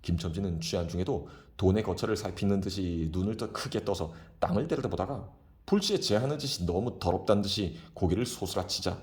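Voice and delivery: ordinary delivery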